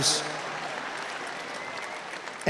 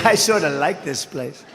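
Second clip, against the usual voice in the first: soft casual musing; 4 dB quieter than usual. Retold or imitated. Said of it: "you say".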